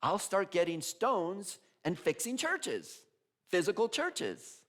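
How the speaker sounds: slow, high, naive conclusion; Francis, mock literal. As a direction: play it dead literal and slow. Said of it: "he gets up and he goes".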